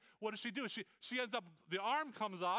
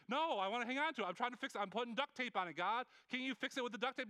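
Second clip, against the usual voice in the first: higher, clinging and stubborn; stubborn believer; 4 semitones higher than usual. Retold or imitated. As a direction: hold on to it, refusing to let go. Acted quarrel with God.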